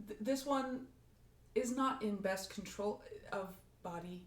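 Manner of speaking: soft, halting robot voice. Acted. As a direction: speak like a newly built robot. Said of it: "more robot voice".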